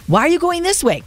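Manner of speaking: mock complaining husband. Wife voices husband's complaint.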